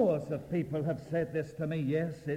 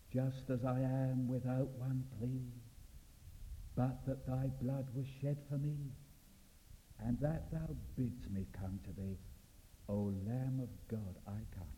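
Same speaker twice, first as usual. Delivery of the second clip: hushed hymn recital; 6 dB quieter than usual. Acted. Preacher imagines Peter's second hymn, quiet and reverent. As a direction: recite it quietly, settling down to the last words.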